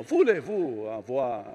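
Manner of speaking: mock smooth French murmur. Shown as a demonstration. Son of Arabic speakers parodying French, smooth French. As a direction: glide through it in silky French. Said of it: "French is so smooth".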